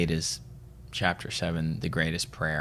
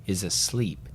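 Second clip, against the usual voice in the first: slow, measured recitation with pauses; solemn book reading. Real, not acted. Podcaster reads a spiritual passage to co-host, solemnly. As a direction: read it slowly, phrase by phrase.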